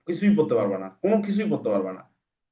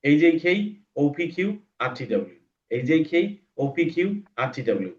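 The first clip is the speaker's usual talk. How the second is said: quickly. Shown as a demonstration. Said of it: "এরপর speed".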